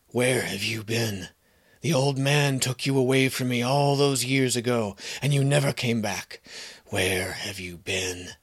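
put-on a broken old horse pleading to someone he lost; pained old horse. Horse recognizes long-lost boy.

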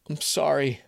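plain reading voice

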